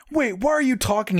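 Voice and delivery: high, cartoonish disbelief; baffled question. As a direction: act out a startled cartoon princess. Zelda's baffled question in retold cartoon.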